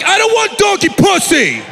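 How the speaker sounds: high, slow protesting yell; husband's high pleading protest. Retold or imitated. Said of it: "I was yelling".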